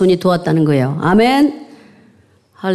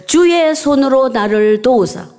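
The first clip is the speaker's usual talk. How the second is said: slow, weighty recital of 주의 손으로; slow emphatic reading; 3 semitones higher, slower than usual. Shown as a demonstration. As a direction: read it slowly, leaning on 주의. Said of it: "세 번째로 무슨 기도했어요?".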